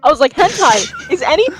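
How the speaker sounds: retold heated lecture; emphatic, mildly worked-up schooling; losing it. Retelling how they educated a kid on terminology, heated. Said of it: "I lost my shit".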